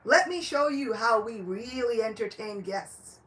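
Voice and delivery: mock yell. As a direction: jeer at them as they run. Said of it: "mad people yelling after them".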